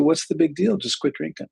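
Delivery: a hint of a breezy, dismissive voice; dismissive know-it-all. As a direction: lightly play someone who thinks quitting is easy. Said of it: "somebody says to you".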